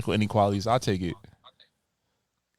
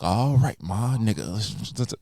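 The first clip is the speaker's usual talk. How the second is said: Denzel impression; 3 semitones lower, 4 dB quieter, slower than usual. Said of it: "we get Denzel".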